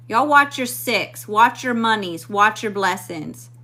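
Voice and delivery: slow, loud, hitting each "watch"; emphatic warning. Real, not acted. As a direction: lay down the warning word by word. Warning viewers about scammers.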